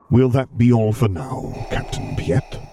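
cold, measured imperial authority; Darth Vader voice. Acted.

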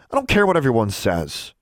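put-on mildly heated, defiant girl's reply; angry retort. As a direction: dismiss her friend with some anger. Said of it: "Alexandra was angry now".

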